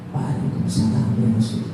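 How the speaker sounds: soft, low, hidden reply; answering softly. Acted. Master hiding behind the door answering the Prophet, soft and low. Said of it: "jawabnya pelan".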